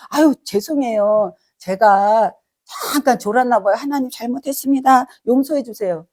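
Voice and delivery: lightly acted sheepish plea; mock contrite apology. Sinner asking God for forgiveness, mock contrite.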